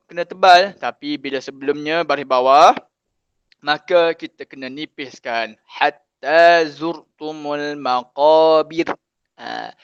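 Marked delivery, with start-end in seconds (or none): 5.6-8.9 slow, drawn-out recitation; teacher modelling the verse for students, slow recitation; Quran recitation. Shown as a demonstration. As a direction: chant the verse slowly and evenly.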